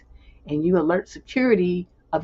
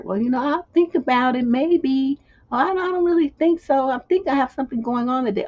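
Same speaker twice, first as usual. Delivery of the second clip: high, wavering non-committal excuse; timid response; 6 semitones higher than usual. Shown as a demonstration. Woman putting off an unwanted invitation, timid and vague. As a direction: mimic someone too timid to say no. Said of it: "All those kind of little timid responses".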